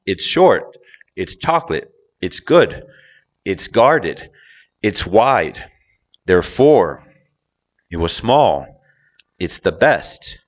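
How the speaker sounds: each last word punched high, like "short", "good", "wide"; low start, peak on "short", "chocolate", "small", "best"; low-high pattern. Shown as a demonstration. Teacher drilling phrases for learners, stress on adjectives like "good". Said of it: "It's always gonna go low, high".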